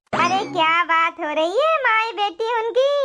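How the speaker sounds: put-on a caring granny soothing two wet girls; kind old woman. Old woman inviting the crying girls home, gentle and low.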